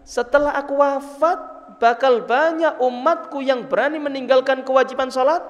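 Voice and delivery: mildly shocked questioning, pitch lifted a little; Nabi Muhammad, taken aback. Retold or imitated. The Prophet asks Jibril about his people, mildly shocked. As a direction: retell an astonished, earnest question. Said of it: "Kaget tuh Nabi Muhammad".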